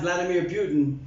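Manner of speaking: "Putin" said as the surname, with a y-glide, PYOO-tin; the name Putin. Shown as a demonstration. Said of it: "it's not pudding".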